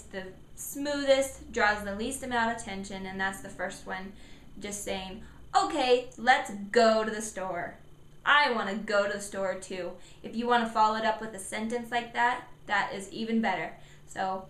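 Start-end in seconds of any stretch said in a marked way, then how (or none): 5.6-10.0 "go" stressed with a clear hard G; emphasis on G. Shown as a demonstration. Parent agreeing to the store, subtly emphasizing "go". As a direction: casually repeat it, leaning on the G in "go". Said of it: "with emphasis on the sound".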